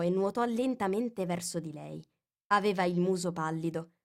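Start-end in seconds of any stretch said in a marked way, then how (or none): none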